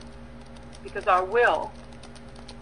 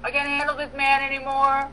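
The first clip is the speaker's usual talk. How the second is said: high, strained voice of a worn-out wife at her limit; the wife, pitched up and pleading, done with her man; wife's weary plea; 5 semitones higher than usual. Retold or imitated. Wife in the kitchen pleads with the Holy Spirit, high and strained. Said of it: "and she goes".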